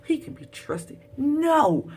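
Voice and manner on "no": loud, high shocked cry. Real, not acted. Viewer learning the white guy betrayed them, shocked. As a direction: gasp it out in disbelief.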